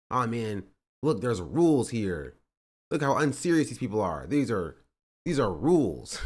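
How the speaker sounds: nasal know-it-all nerd voice. Retold or imitated. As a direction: read it like a smug nerd. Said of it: "read it in the nerd voice".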